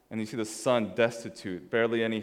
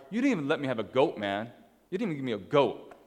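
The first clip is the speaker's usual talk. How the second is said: put-on aggrieved older brother. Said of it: "what does the older brother say".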